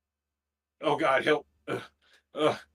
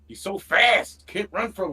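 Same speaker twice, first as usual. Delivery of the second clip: alarmed slow shout; 3 semitones higher, 7 dB louder, slower than usual. Real, not acted. Boss chasing him in game.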